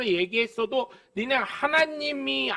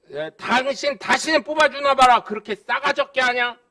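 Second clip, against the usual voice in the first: louder, half-acted telling-off of a council member; angry scolding; 3 semitones higher, 5 dB louder than usual. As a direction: threaten him like an irate voter on the phone. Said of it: "그랬더니". (전화로 구의원을 꾸짖는 성난 목소리)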